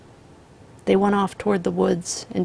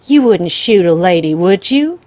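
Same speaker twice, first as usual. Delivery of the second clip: put-on pleading old woman; 11 dB louder than usual. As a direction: beg for her life. Grandmother pleading.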